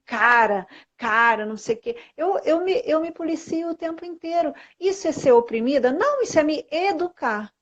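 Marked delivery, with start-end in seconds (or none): 0.1-1.5 loud slangy talk. Retold or imitated. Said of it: "e falo muito".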